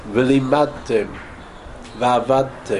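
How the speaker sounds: V'limadtem, v'avadtem slowly with a clear d; dalet sounded. Shown as a demonstration. Rabbi drilling the dalet with his class, slow. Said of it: "have to say the dalet".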